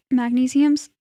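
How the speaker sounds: talking through hiccups; a hiccup breaks the word. Real, not acted. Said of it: "Pardon me, I have the hiccups".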